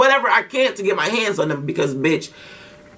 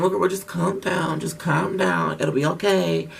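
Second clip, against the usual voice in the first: soothing calm-down; 3 semitones lower, 5 dB quieter than usual. Retold or imitated. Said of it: "my sister like".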